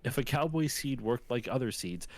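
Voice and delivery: lightly performed cowboy poem, measured verse rhythm; poem recitation. Retold or imitated. Podcaster reading a lonesome cowboy's poem to friend, lightly recited. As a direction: recite it as earnest rhymed verse.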